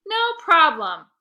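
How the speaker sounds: slow, loud reassurance; calm everyone down; reassuring. A narrator's reading. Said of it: "I assured them".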